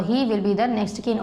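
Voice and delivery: very slow, word by word, for students to write; slow dictation. Shown as a demonstration. Teacher reading a worksheet line to the class, slow dictation. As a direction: read it out slowly so the class can copy.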